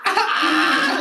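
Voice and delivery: high screeching laugh burst; hyena laugh. Retold or imitated. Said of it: "The days of the hyena laugh?".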